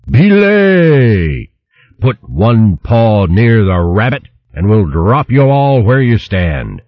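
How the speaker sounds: stern commanding hedgehog; stern booming. Acted. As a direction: boom a threat from the trees. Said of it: "A stern voice boomed".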